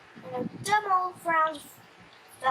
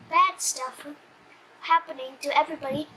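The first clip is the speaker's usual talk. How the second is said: plain reading voice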